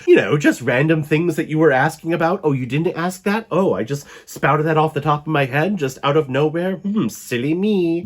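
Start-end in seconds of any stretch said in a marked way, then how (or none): 2.4-8.0 mock innocent. Vampire pretending the info dump was an accident, sarcastic. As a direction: play dumb about oversharing. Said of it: "starts spouting off everything".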